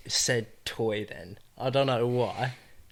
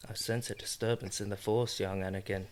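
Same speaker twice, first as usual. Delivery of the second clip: hushed mock Jedi warning; solemn Jedi voice; 5 semitones lower, 9 dB quieter than usual. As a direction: murmur it like a wise old Jedi. Star Wars quote riffing.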